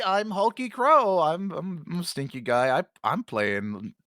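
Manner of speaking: low, rough, gravelly growl. Acted. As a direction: grumble it in a gravelly voice. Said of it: "my funny gravelly voice".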